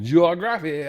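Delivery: "Geography" with an Australian accent; "Geography" given an Aussie twist; Australian accent try. Shown as a demonstration. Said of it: "how you guys would say that with your, even your accent".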